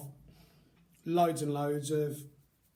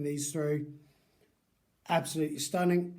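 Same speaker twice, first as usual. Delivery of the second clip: talking round a sweet; sweet in the mouth while speaking; mouth full. Real, not acted. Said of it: "I still have this sweet in my mouth".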